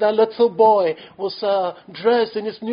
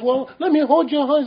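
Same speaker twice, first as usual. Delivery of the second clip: higher, louder repeat of the offer; insistent father; 6 semitones higher, 5 dB louder than usual. Retold or imitated. Father repeats offer to stubborn son, louder, insistent. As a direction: press the father's plea a second time. Father asks again, more urgent.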